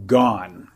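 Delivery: "gone" set apart and leaned on; underlined word. Shown as a demonstration. Teacher stressing "gone" for his listener, drawn out. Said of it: "let me underline the word".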